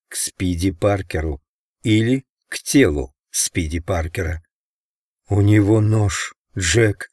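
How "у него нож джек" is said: usual speaking voice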